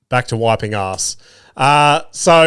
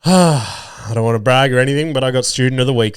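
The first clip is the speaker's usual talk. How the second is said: mock humble brag. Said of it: "He goes".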